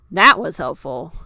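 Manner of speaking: loud, dry sarcasm; sarcastic. A narrator's reading. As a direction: sniff it out sarcastically. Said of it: "Fuyuhiko sniffed".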